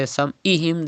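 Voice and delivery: "sam'ihim" with a simple catch before i; mistaken Hamza. Shown as a demonstration. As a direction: use Hamza in "sam'ihim", no throat squeeze. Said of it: "that means you are reading Hamza".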